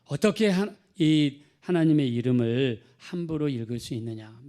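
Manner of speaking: retelling a furious Jewish man, shouting; angry rebuke. Retold or imitated. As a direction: scold him for misusing God's name. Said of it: "막 그러면서 화를 냈다는 거예요".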